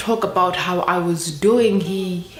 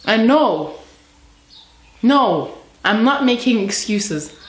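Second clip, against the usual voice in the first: defensive protest; 4 semitones higher, 4 dB louder than usual. Acted. Monologue, mother rejects blame for leaving.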